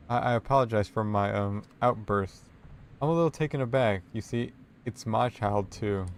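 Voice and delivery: mildly shaken halting apology; a touch of tearfulness, faltering; near tears. Acted. Librarian apologizing to the player, mildly tearful. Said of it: "on the verge of tears".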